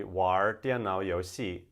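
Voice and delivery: "玩" with an r-coloured Beijing ending; northern accent. Shown as a demonstration. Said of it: "The verb that you may have learnt already".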